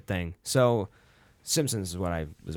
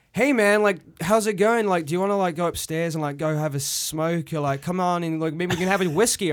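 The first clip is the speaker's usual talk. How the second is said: lazy party guy offering a smoke; London stoner's accent; 7 semitones higher, 6 dB louder than usual. Retold or imitated. Stoner at a London party, high and loud. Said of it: "and he was like".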